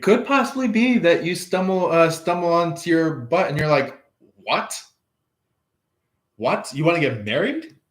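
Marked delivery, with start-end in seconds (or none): 4.4-7.8 fast, disbelieving questions; mock surprise. You, thrown by the proposal, in mock amazement. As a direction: stumble over it in amazed disbelief.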